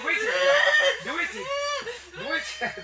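mock high-pitched question; high squeak. Real, not acted. High mocking repeated question. (سؤال بصوت حاد جداً)

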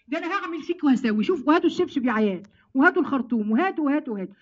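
loud hammed-up scolding, calling for the slipper; mock angry mother. Mother yelling at her son who failed the exam, mock furious. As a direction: play the furious mom threatening her kid.

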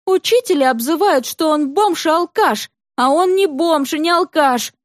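put-on high, insistent girl yelling her grievances; defiant girl's outburst. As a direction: rail at the teachers like a furious child.

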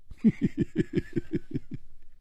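very soft, high chuckle; a run of quiet, teasing giggles. Acted. Rider teasing the silent stranger.

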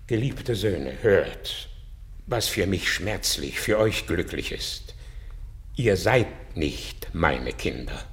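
tender sorrow. Acted. Old Bellarius telling the boys he is not their father, softly sad. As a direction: break it to them gently. Painful confession to his sons.

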